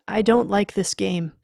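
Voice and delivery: uneasy protest. Acted. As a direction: protest loudly into the dark. Uneasy man calling into dark.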